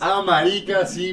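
loud, high burst of remembering; sudden realization. Real, not acted. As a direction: blurt it out as it hits you. (de repente, en voz alta y aguda)

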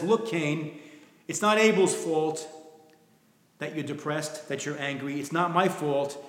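gently reasoning, softening midway; tender counsel. Acted. Preacher voicing God counseling downcast Cain, mildly tender. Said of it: "Look at the tenderness of it".

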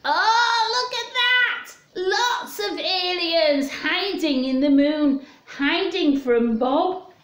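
high, sing-song gasp of discovery; look, you found them all!; pitched high with wonder, slowing down; delighted surprise. Acted. Spots hidden aliens in picture book.

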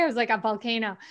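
ordinary talk, nothing marked

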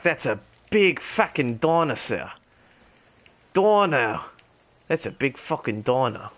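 put-on gamer holding a posh English RP accent. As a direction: stay in a lightly done British RP voice. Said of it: "I should have chosen a different accent for my, for my R P character".

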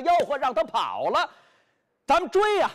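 high, loud rallying cry; rousing the others to chase the fugitive; excited shout. Acted. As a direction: urge them all into the chase. The brothers see Bai escape.

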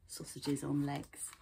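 "Sausages on legs" repeated low and soft, savoured; amused aside. Shown as a demonstration. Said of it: "That's funny".

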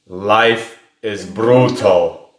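slow, heavy deadpan; grim foreign reply. Retold or imitated. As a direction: drag out life is brutal darkly. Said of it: "The response was".

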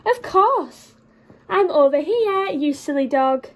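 a hint of a sneering cat; hissing cat. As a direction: tease the dog as a smug cat. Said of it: "hissed the cat".

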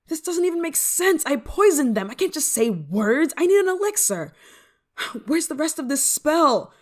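high, loud frustrated rant; exasperated. Acted. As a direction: rail at a useless spellbook, sighing between lines. Exasperated at useless spellbook.

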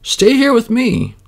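high, slow, coaxing plea; slow, high coaxing woodman; woodman pleading. Acted. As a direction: draw the child to stay. Woodman asks child to stay.

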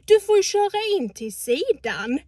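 loud, high, slow angry retort. Retold or imitated. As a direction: yell back at the driver. Retold quarrel with old man. (skriker argt till gubben)

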